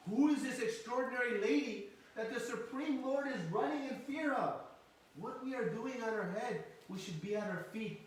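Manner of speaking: high, loud wonder at who she is; astonished flowers. Acted. Flowers thinking aloud on Mother Yashoda's head, astonished.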